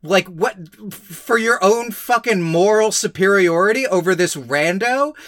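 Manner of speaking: exasperated rant. Real, not acted. Ranting at character's moral superiority.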